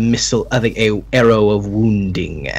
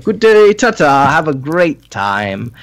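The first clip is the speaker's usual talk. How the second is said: breezy send-off; 6 semitones higher, 4 dB louder than usual. Acted. Merchant dismissing customer, cheerfully.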